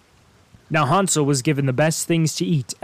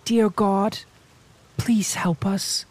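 high, slow tearful plea; crying prayer; 5 semitones higher, slower than usual. A narrator's reading. Gretel praying while forced to carry water, tearful. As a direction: beg heaven through tears. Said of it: "she cried".

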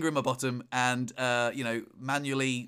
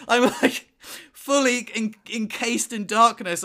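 worked up; 7 semitones higher, 7 dB louder, slower than usual. Retold or imitated. Excited retelling of dark panic.

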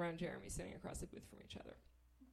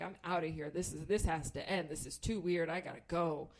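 determined; 4 semitones lower than usual. Retold or imitated. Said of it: "am bound and determined".

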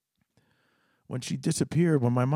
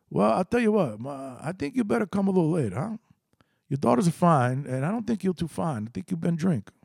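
threatening dad; 5 semitones higher than usual. Retold or imitated. Dad threatens drunk caller.

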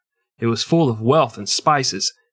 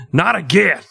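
Not again said higher, rising on Not; higher mock wail; 6 semitones higher, 3 dB louder than usual. Cohost mocking the victim with a higher Not again. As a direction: pitch it up and whine Not again.

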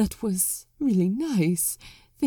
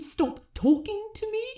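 character voice; 12 semitones higher, 4 dB quieter than usual. Acted. Patient's high put-on voice.

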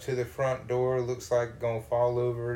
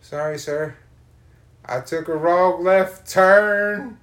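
mock nervous apology; 4 semitones higher, 8 dB louder, slower than usual.

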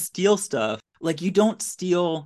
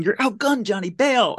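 a mild mock yell of a warning; 7 semitones higher than usual. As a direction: call out the warning, half-hearted. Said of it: "Sparks is yelling".

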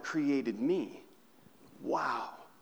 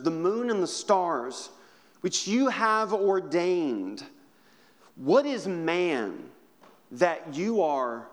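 measured, earnest psalm reading; scripture reading. Acted. Reads Psalm aloud.

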